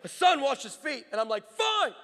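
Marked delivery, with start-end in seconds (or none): 0.1-1.1 slow, raised-pitch divine command; solemn mock-divine order; voice of God. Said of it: "He says". 1.5-1.9 high-pitched, exasperated outburst; hammed-up grudging surrender; mad. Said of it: "Like, I'm so mad".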